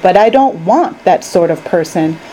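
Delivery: lightly voiced, earnest candy maker; Mister Wonka. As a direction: explain it with animated, rising emphasis. Wonka explains his plan.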